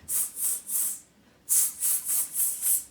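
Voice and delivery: monkey tsk. Acted. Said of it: "you guys can be the monkeys".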